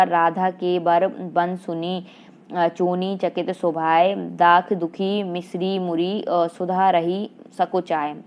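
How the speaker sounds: slow, measured verse reading; a teacher reciting Hindi verse for the class; poem recitation. Acted. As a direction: read the couplet aloud like a poem, slowly. Teacher recites couplet in quiz.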